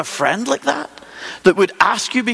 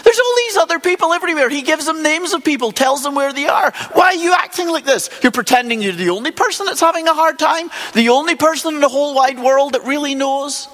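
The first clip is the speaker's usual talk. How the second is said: incredulous rebuke; 5 semitones higher than usual. Retold or imitated. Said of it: "And God says to him, more or less".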